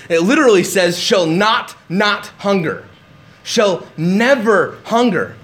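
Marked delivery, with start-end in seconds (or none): 1.0-2.8 NOT hit twice, with a break between; emphatic double negative. Shown as a demonstration. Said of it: "It's emphatic". 3.4-5.4 NEVER drawn out slowly and set apart; emphatic NEVER. Shown as a demonstration. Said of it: "it's just an emphatic never".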